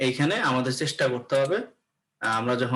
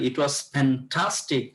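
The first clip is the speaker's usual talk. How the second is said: "fantastic" with the middle syllable stressed; much slower than usual. Shown as a demonstration. Teacher shows students another stressed example, stress on "fantastic". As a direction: slowly lean on the TAS in "fantastic". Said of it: "stress গুলা দিতে হবে".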